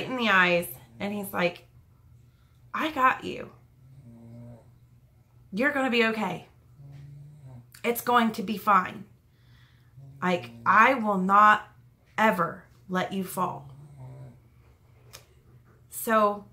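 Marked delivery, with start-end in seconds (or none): 2.7-13.7 measured reassurance, long pauses between phrases; retold steady, comforting promise; reassuring.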